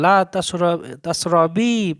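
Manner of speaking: তাসরবি said with a strong, drawn pull. Shown as a demonstration. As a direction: lean hard into তাসরবি and stretch it. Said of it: "জোর টান দিয়ে বলতে হবে".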